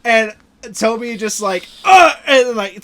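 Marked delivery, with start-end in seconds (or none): 1.9-2.1 imitated stab grunt; short mock "uh" of someone stabbed; pained grunt. Acting out Tobey being stabbed.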